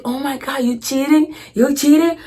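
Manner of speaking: high-pitched, incredulous questioning; mock scandalized cousin. Cousin catching the teller with cookies, mock scandalized. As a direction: imitate a kid's accusation, pitched well up.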